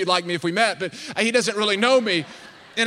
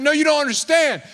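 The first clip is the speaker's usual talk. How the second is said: excited insisting; 5 semitones higher than usual. Retold or imitated. Insisting to unimpressed friends.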